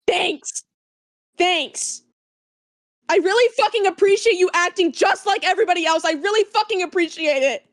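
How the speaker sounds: sour, sarcastic thanks; bitter sarcasm. Real, not acted. Hurt partner thanking him sarcastically, bitter. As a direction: spit out the thanks.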